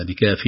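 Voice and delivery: "بكاف" ending cleanly on the fa; "بكاف" short, with no added vowel; correct pause. Shown as a demonstration. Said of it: "بكاف هكذا". (وقف صحيح على "بكاف")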